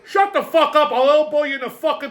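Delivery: imitating a cranky old man telling a loudmouth to shut up; retold angry threat. Ray at the bar, threatening the Biden guy: angry retold yell.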